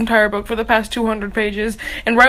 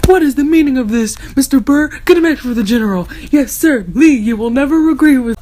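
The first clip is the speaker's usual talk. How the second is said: Hamilton quote; 4 dB louder, faster than usual. Retold or imitated. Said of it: "all I can think of is".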